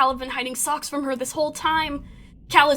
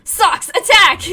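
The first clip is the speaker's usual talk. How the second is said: loud, high attack order; command shout; 7 semitones higher, 11 dB louder, slower than usual. Acted. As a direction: bark the order at the pet.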